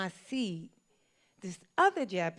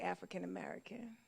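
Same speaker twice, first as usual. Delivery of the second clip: proud; 12 dB quieter than usual. Retold or imitated. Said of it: "I said it proud like Olivia Pope".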